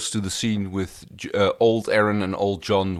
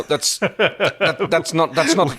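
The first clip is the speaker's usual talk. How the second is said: laughing through the words, pitched up; 9 semitones higher, 5 dB louder, slower than usual. Real, not acted. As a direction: break into a laugh mid-sentence. Laughing at the silly resolution.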